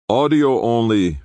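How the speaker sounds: curt, hard order; dark, hard tone. A narrator's reading. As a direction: say it cold and hard. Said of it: "his tone dark, hard".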